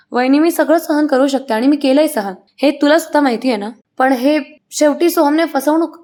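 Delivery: a voiced-up fake sob in the words; talking while crying. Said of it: "अनामिका आता रडता रडता म्हणते". (रडत रडत, नाटकी तक्रार)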